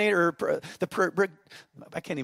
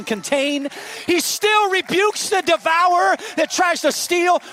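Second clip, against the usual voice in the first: loud, high climactic preaching; full-force preaching; 10 semitones higher, 11 dB louder than usual. Acted. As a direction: preach at the top of your lungs.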